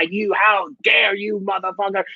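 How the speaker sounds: mock shout. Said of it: "start yelling at my".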